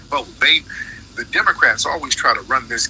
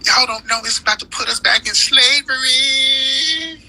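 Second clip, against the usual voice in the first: mock scare-monger; 12 semitones higher than usual. Mocks Democrats' scare talk.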